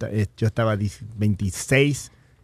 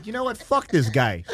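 retold angry outburst. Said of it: "and that's when I said".

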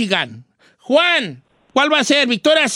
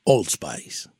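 very deep, hushed ad announcer; low, soft masculine cologne read; sexy voice; 11 dB quieter than usual. Shown as a demonstration. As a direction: drop it right down and seduce the listener. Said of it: "voz sexy".

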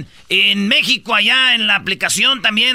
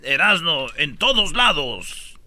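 ad voice; 4 semitones lower, 4 dB quieter, slower than usual. Pretend. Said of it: "un comercial".

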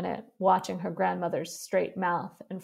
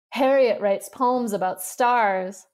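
mocking tease; 3 semitones higher, 5 dB louder, slower than usual. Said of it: "could contain himself no longer".

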